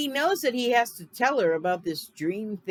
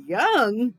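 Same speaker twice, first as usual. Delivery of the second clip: incredulous; 4 semitones higher, 6 dB louder than usual. Retold or imitated. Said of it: "you're like".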